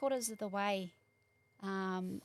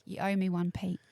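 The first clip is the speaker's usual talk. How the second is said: mock telling-off; 8 dB louder than usual. Mock scolding absent Pete.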